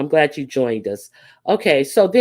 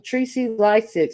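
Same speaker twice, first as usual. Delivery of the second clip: mock commenter; 5 semitones higher than usual. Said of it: "says this Fi Babe person".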